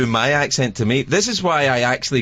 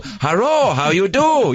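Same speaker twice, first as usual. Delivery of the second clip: mock Asian accent; 6 semitones higher, much slower than usual. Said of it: "walk up to an Asian person and go".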